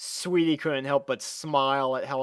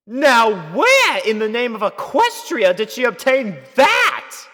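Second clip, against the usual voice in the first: louder, much higher, posh astonishment; surprised Rarity; 10 semitones higher, 12 dB louder than usual. A narrator's reading. Rarity spotting the sapphire, loud and surprised. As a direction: gasp out the question in shock. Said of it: "her eyes widened in surprise".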